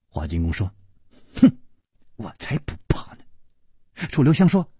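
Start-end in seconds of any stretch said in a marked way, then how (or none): 1.4-3.2 huff, then brush it off under the breath; scornful scoff. A narrator's reading. Woman scoffs at his warning. (轻声不屑地哼一句)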